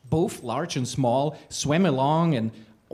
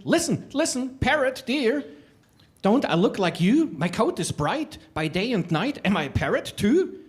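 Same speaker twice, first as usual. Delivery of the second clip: lightly raised, eager voice; a hint of a pleading little creature; 5 semitones higher than usual. Little creature pleading with the parrot, higher. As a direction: lift it up hopefully.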